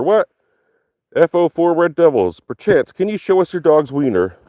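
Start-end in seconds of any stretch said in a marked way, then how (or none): 1.1-4.4 lightly raised, prim comment voice; mock posh reader. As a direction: read it like a fussy gent. Reading a comment in a put-on voice.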